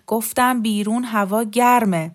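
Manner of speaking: slow, insistent angry retort. Acted. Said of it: "دندانهایش را چفت کرد و صدایش را بلند کرد".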